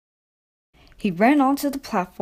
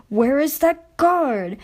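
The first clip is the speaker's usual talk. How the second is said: anxious; 6 semitones higher, slower than usual. A narrator's reading. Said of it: "Edward was getting anxious".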